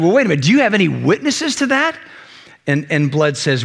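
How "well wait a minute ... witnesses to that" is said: quick, mildly sceptical courtroom challenge; challenging questioner. Acted. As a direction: cut in fast to question the witness. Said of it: "asking the question".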